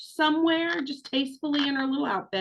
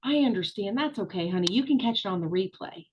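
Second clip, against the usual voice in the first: sweet understanding. Retold or imitated. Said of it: "would immediately be like".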